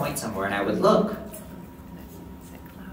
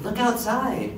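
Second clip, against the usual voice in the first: brother's call; 9 semitones higher, slower than usual. Retold or imitated. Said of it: "And he said".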